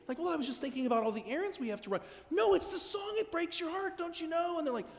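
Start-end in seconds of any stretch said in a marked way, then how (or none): 0.2-2.0 fast, slightly raised offhand excuse; breezy excuse. Acted. Acted partner excusing themselves. 2.3-4.6 very high, strained plea; pleading. Acted. Acted pleading about song.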